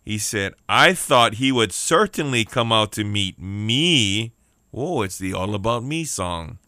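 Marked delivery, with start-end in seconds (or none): 0.7-4.3 indignant, slow and stretched; mildly hammed-up affronted anger; angry. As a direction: lean hard on the self-important ME. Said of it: "But Naaman became angry and stalked away".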